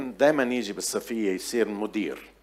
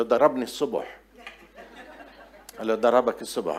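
chuckling while retelling the punchline; giggling retold dialogue; laughing through the quote. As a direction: laugh as you deliver it. Funny retold father-boy exchange.

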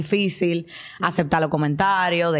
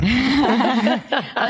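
real laugh; 4 semitones higher than usual. Real, not acted. Co-host laughs at the joke about making money, bright laughter.

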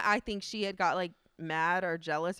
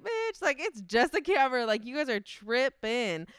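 mocking dismissal; 3 semitones higher, slower than usual. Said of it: "looked at her hella stupid".

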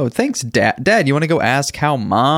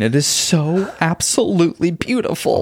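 happy crying. Acted. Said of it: "I think I'm gonna start crying too".

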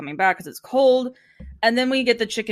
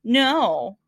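mock denial; 4 dB louder, much slower than usual. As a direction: protest too much, playfully. Sharon denies flirting with Gordon.

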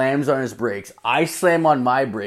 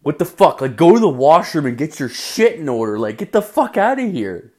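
exasperated order; 4 semitones higher than usual. Retold or imitated. Orders panicking coworker away.

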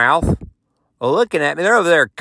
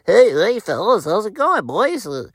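overeager greeting; 7 semitones higher than usual. Retold or imitated. Trying to join cool cowboys.

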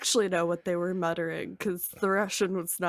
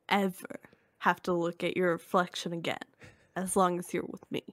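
unhinged Looney Bin Jim; 3 semitones lower, 5 dB quieter than usual. Acted. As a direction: lower and softer, a villain making promises. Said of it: "Would you like to be James".

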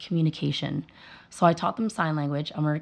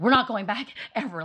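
mock parent vow; 6 semitones higher than usual. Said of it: "most parents would be like".

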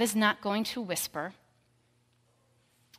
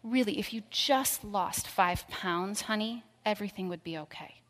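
mock world's whisper. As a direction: coax her like a fake-sweet critic. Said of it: "God is not going to whisper".

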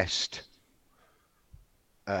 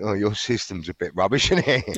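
cocky retold jab, rising louder on the tag question; smug dig at the fraud chief, getting louder at the end; arrogant taunt; 4 dB louder than usual. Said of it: "I was arrogant".

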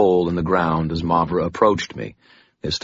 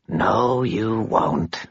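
dry, dusty vampire voice, raised in pitch; 4 semitones higher, much slower than usual. Acted. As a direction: speak like old dust stirring. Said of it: "she said in her dusty voice".

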